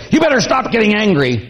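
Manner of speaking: mock-scolding wife; nagging warning. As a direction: snap at him to quit it. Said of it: "if you say".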